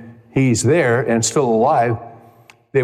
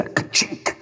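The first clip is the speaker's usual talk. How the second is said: whispery, voiceless "ka-chink" click; imitated ka-chink; 7 dB quieter than usual. Preacher showing how a truth lands, imitated soft ka-chink. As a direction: make a soft mechanical ka-chink with the mouth.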